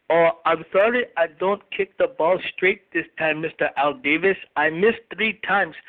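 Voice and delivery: halting, slowed foreign-accented mock apology; mock Janikowski. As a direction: put on a thick accent for a kicker's apology. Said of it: "just got a call right now from special teams coach Fossil and also Sebastian Janikowski".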